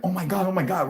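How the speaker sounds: high, excited repeated oh my God; family amazed. Retold or imitated. Whole family staring at the UFO, high excited gasping. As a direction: gasp in disbelief at the sky. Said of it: "my whole family's like".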